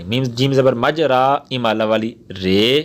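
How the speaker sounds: letters spelled slowly one by one; slow hija recitation; slow spelling out. Shown as a demonstration. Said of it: "را امالہ والی کیا کہ رے کر دیں گے".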